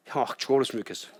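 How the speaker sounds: put-on fast offhand kid's voice; blunt child. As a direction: blurt it out like a small boy. Little son's shocking wish.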